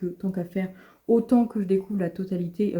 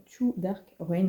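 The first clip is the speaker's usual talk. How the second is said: mock English accent; slower than usual. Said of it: "avec mon super accent anglais".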